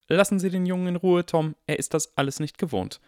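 high, firm protective teacher; stern McGonagall. A narrator's reading. McGonagall to the barkeeper Tom, firm and stern. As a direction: shield the boy firmly.

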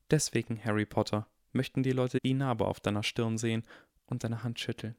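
put-on hushed, sorrowful older woman; grieving old teacher. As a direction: tell it gently through grief. McGonagall tells Harry the story.

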